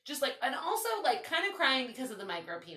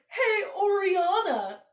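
high, slow sing-song call through laughter; laughing mock call; 10 semitones higher, 7 dB louder, much slower than usual. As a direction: drawl his name out while laughing. Retelling the guy calling her.

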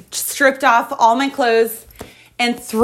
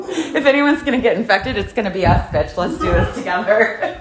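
laughing through the words; 3 semitones lower than usual. Real, not acted. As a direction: giggle while saying it. Laughing through joke to riders.

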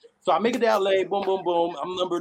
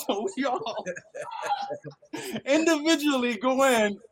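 laughing while telling it; real laughter mid-story; 8 semitones higher than usual. Real, not acted. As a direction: laugh through the words.

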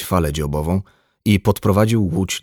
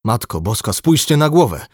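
exclamation rising high and louder; shocked cry; 5 semitones higher, 4 dB louder than usual. A narrator's reading. Fisherman sees the castaway's head, crying out. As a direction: cry out at a horrible discovery. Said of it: "krzyknął rybak".

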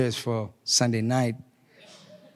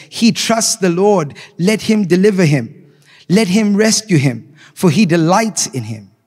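mocking scoffers; 6 semitones higher, 5 dB louder than usual. Mockers quoted in the psalm.

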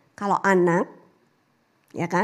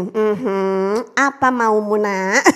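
slow, low, knowing dad with a laugh; amused father, slow and lower; 5 semitones lower, much slower than usual. Retold or imitated. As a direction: tease the child, you know what's coming. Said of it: "Langsung Pak Daniel gini".

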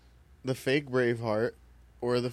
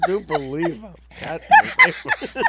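Southern belle; 2 semitones higher, 10 dB louder than usual. Pretend.

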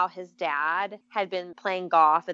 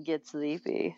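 softer, mimicking her way of saying "Get sleepy"; playful copy of "Get sleepy", hushed; soft imitation; 4 semitones lower, 6 dB quieter, slower than usual. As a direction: echo "Get sleepy" softly, teasing. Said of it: "I like the way you say that".

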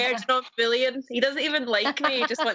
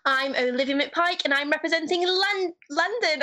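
English accent; 4 semitones higher than usual. Shown as a demonstration. Pageant contestant having another go, English accent. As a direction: introduce yourself in a careful English accent. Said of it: "that English accent was pretty good".

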